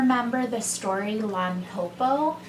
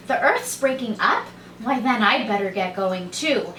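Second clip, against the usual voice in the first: alarmed realization. Acted. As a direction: catch on and get worried.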